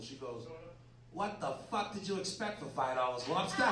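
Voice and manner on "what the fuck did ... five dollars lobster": put-on light Boston accent; a hint of a Boston hooker's accent; lightly voiced Boston accent, scolding the client. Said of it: "in the most Boston way possible".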